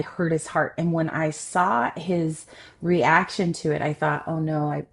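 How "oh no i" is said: recalled panic rising, higher and louder; panicked inner voice. Retold or imitated. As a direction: replay the moment you thought it was all over. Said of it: "I just went into full panic mode".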